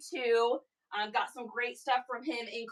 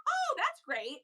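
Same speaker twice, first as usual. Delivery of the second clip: sarcastic; 14 semitones higher, slower than usual. Retold or imitated. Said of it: "And I was like".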